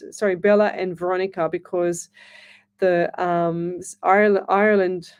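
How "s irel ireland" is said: false start on "Ireland", then the whole word; stumbling over Ireland. Real, not acted. Host can't say Ireland to her viewers, stumbling over "Ireland". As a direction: trip on the first syllable of "Ireland" and retry. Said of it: "I can't say Ireland".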